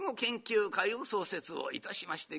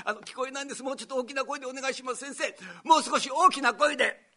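higher, fast pleading patient voice; 6 semitones higher, much faster than usual. Retold or imitated. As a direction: beg the doctor to speak up. Patient can't hear doctor.

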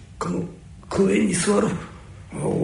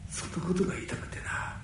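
quiet; 11 dB quieter, faster than usual. Acted. Quiet final confession.

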